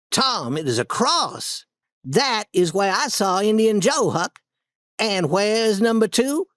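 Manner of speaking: put-on high boyish voice, pointing into the dark; eager boy, slowing on the last words; hushed excited Tom. A narrator's reading. Tom shows Huck the cross in the cave, high excited voice.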